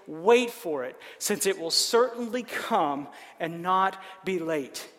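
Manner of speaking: solemn scripture reading. Acted. Reads God's answer from scripture.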